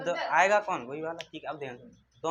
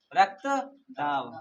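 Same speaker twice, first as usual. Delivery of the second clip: slow; much slower than usual. Shown as a demonstration. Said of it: "और हिंदी में क्या बोलते हैं?".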